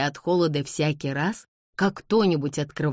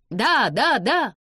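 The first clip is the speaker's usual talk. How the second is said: high, louder, eager chorus of yeses; excited cries; 8 semitones higher, 5 dB louder, slower than usual. A narrator's reading. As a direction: cry out eagerly, each word swooping up. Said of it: "закричала молодёжь". (восторженные выкрики)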